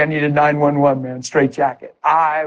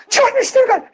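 excited phone call; 5 semitones higher than usual. Retold or imitated. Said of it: "I dialed the phone".

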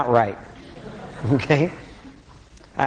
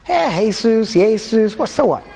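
high, playful hey-SOOS; jokey greeting; 7 semitones higher, slower than usual. Retold or imitated. Joking with the cashier Jesus, high and playful. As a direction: greet him teasingly. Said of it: "I'm like".

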